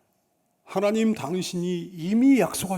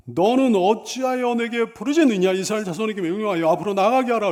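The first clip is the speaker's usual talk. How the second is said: loud, commanding scripture quote; rebuke, then drive on into the order; scolding; 4 dB louder than usual. Acted. God orders Moses to move Israel forward, scolding. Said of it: "이렇게 꾸짖는 말씀이에요".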